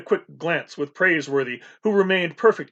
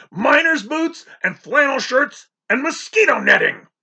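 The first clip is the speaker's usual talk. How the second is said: high, loud blustering list; indignant captain; 10 semitones higher, 5 dB louder than usual. A narrator's reading. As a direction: rattle off the rival's cargo in outrage. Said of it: "Captain Swain bellowed".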